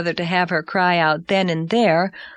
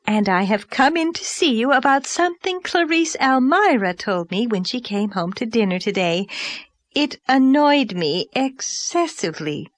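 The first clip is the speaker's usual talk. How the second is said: Mrs Donnell; 3 semitones higher than usual. Acted. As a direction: announce yourself like a grand overdressed lady. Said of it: "announced this vision".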